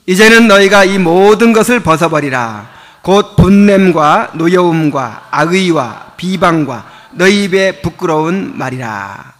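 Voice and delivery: 천천히 또박또박 읽는 성경 낭독; 회중 앞에서 엄숙하게 말씀을 읽듯이. Acted. Reads scripture aloud. (목사가 회중에게 본문을 천천히 낭독)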